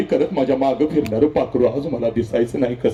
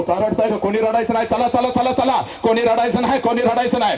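father calling out; 6 semitones higher than usual. Retold or imitated. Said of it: "सगळ्यांना ओरडतो".

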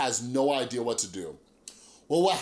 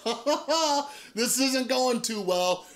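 high-pitched put-on laughing; mock nervous laugh; 10 semitones higher, slower than usual. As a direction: laugh uneasily through the words, much higher. Retold uneasy laugh at bad news.

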